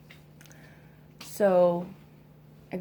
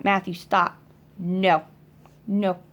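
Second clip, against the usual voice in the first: firm scolding; 5 dB louder than usual. Real, not acted. Mother scolding toddler grabbing phone.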